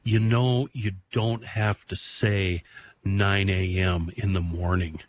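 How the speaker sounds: lightly imitated laid-back radio veteran; Bergie. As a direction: take them aside gently, slow and laid-back. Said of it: "this really laid-back Bergie tone".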